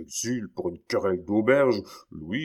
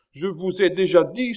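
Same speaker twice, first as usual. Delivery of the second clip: higher, louder exasperated cry; exclaiming; 10 semitones higher, 7 dB louder than usual. Acted. King cutting off his minister, loud exasperated cry. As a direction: burst out in irritation. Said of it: "s'écria Louis quinze".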